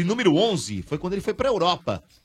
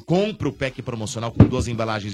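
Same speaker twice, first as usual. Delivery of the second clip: enthusiastic radio commercial pitch; ad read. Acted. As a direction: hype it up for listeners. Sponsor ad read to listeners.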